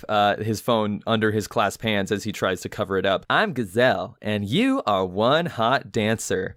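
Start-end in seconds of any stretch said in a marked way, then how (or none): 3.3-6.5 slow robotic app voice; automated voice. Retold or imitated. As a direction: speak like a flat robot app. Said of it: "you hear the app".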